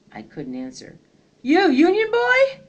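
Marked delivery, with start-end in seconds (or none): 1.4-2.6 slow, much higher mocking sneer; jeering. A narrator's reading. Soldier holding up Union uniform, slow loud jeer. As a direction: taunt him with the uniform. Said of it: "one jeered".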